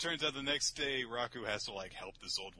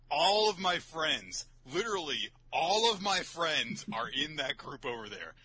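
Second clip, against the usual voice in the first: pleading Raku; 4 semitones higher, 4 dB louder than usual. Retold or imitated. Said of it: "Raku would just be like".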